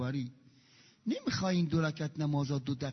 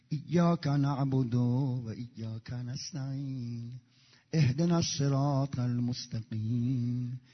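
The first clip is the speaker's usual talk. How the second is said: slow, measured prayer recitation; recited prayer; slower than usual. Shown as a demonstration. Preacher reciting prayer for the congregation, slow and devout. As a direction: chant each phrase unhurried and devout.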